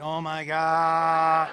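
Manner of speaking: slow, drawn-out dismay. Retold or imitated. Dad hearing his son's Spanish boast, dismayed. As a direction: stretch it out long and loud in disbelief.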